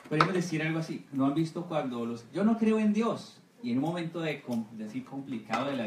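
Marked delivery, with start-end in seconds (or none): 2.3-3.4 higher, slow, smug scoff, lightly hammed; mock scoffing unbeliever. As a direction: play the proud doubter mocking God. Mocking an unbeliever's boast.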